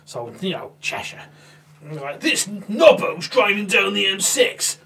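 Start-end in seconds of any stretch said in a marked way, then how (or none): 2.2-4.8 slow, slightly higher documentary voice-over; lightly voiced TV announcer; mock TV narrator. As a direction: ham up the cop show narration. Narrating a TV cop show voice-over.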